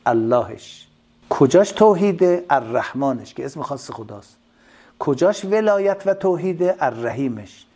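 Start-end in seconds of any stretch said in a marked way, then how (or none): 1.3-2.4 rhetorical question. Real, not acted. 5.0-6.8 rhetorical question. Real, not acted.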